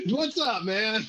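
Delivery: put-on high, bright hello to an old friend; excited greeting. Greeting Titty Bear at the meetup, excited and high. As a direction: pitch it way up, delighted.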